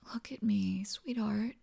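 hushed and tender, coaxing her to look up. Acted. Partner soothing a worried lover, tender whisper. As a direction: whisper it gently, close to her ear.

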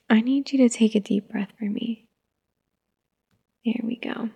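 soft hushed whisper; calming whisper. Acted. Mother calming her fussy toddler in a whisper.

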